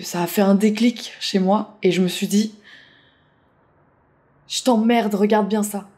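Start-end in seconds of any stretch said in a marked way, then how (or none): 4.5-5.9 defiant. Retold or imitated. Quotes her defiant vow to herself.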